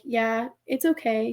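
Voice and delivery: slow, soft-edged retold reassurance; unhurried and accepting; calm, nonjudgmental. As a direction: imitate an officer calmly reassuring someone. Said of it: "very calm and not judgmental".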